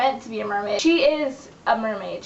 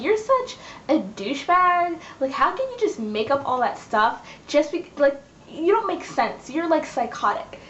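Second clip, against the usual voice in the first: mock angry; 4 semitones higher than usual. Leah confronting Catalina over made-up stuff, mildly angry. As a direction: act out an exasperated accusation. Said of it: "Leah's still really, really mad at".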